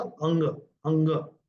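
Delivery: "अंग" with a velar ng; anusvara as NG. Shown as a demonstration. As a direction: sound the nasal ng clearly in "अंग". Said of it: "तो इसका उच्चारण होगा".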